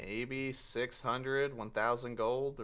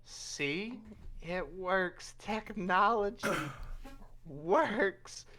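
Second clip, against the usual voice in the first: triumphant, higher pitch; technology works, high and pleased; proud showing off; 8 semitones higher, much slower than usual. Acted. Inventor shows off robot.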